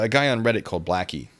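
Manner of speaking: ordinary delivery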